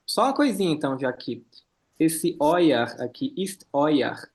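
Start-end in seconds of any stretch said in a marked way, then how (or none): 2.0-4.3 "euer" said "oia", eu as OI; German eu diphthong. Shown as a demonstration. Teacher corrects the student, "euer" with an OI sound. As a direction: say "euer" as "oyer", never E then U. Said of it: "Por causa do som de E e U".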